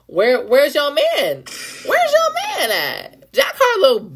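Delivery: slow, mock-grieving cry to the fans; mock wailing. Mocking fans with a hammed-up crying wail.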